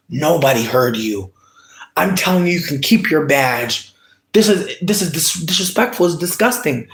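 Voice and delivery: retold tearful pleading. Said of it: "I'm crying".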